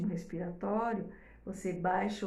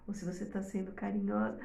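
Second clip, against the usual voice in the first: softer, tender and caring; affectionate tone; 2 semitones lower, 5 dB quieter, faster than usual. Shown as a demonstration. Teacher showing mothers a loving tone, tender and soft. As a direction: say it like cuddling a baby. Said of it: "ela vai entender o tom de voz".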